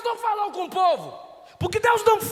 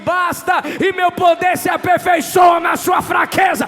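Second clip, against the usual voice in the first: proclaiming God; 7 dB louder than usual. Acted.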